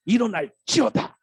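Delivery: high, loud, slow solemn proclamation; grand preacher voice. Retold or imitated. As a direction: intone like an old-school pastor. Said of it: "선배 목사님들이 하시듯이". (옛 목사님 흉내로 장엄하게 선포)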